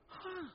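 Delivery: high breathy huh sound; exasperated huh. Retold or imitated. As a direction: let out a soft, high despairing huh. Sigh to pastor.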